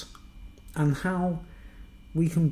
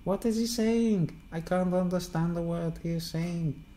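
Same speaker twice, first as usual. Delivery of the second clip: puzzled foreigner; 4 semitones higher than usual. Retold or imitated. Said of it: "and they're like".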